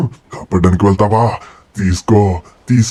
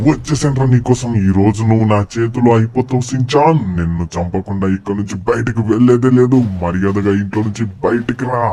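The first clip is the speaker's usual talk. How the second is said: hammed-up villain calling out a rival; villain taunt. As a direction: call him out like a cartoon villain. Villain Red Hulk taunting Shinchan.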